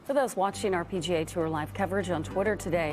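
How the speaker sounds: promo read. Acted. Live coverage promo read.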